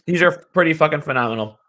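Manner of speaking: talking through a mouthful of drool. Real, not acted. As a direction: speak with a wet mouth full of pretzel. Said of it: "Sorry, I'm drooling".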